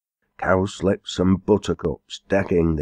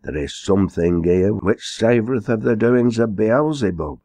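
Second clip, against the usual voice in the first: stern; 4 semitones higher than usual. Acted. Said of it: "sternly remarked".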